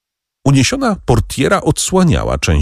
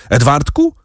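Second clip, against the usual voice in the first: desperate calls, pitched high; calling the boy's name in panic; shouting; 6 semitones higher than usual. A narrator's reading. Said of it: "krzycząc". (rozpaczliwe wołanie, podniesionym głosem)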